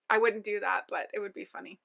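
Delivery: tired, worn-out voice; losing voice. Real, not acted. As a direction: talk like your voice is going. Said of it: "I'm losing my voice".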